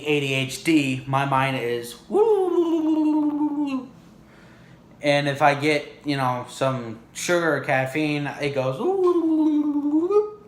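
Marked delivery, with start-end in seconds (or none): 2.1-3.9 long, high steady "woo"; drawn-out falsetto whoop; imitated whirring mind. Shown as a demonstration. Imitating his racing ADHD mind. 8.8-10.4 long, high "woo" sliding up; drawn-out falsetto zoom; imitated sugar-rush mind. Shown as a demonstration.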